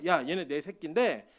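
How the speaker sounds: slow, deliberate charge to a parent; lightly voiced, unhurried entrusting command; God. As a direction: hand over the children slowly and firmly. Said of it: "저한테 위탁하신 거예요".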